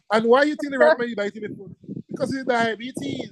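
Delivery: high-pitched, quick question through real laughter; amused, laughing. Real, not acted. Teacher quizzing class about the rat bite, laughing. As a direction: fight back a laugh while teaching. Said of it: "I'm laughing, but it's not funny".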